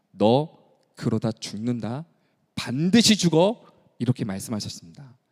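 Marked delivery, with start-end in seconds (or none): 0.1-3.6 low, slow grave warning; stern warning. Acted. God warning King Ahaziah, slow grave threat. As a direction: warn him slowly and gravely. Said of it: "아하시아 왕에게 이렇게 말하죠".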